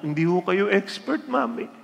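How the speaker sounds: high, teasing daughter voice; cheeky daughter. Retold or imitated. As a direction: tease mom with a laugh. Teen daughter teasing her mom.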